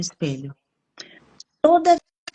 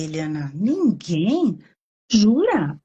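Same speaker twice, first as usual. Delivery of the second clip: gentle challenge; slower than usual. Shown as a demonstration. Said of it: "O confronto, assim".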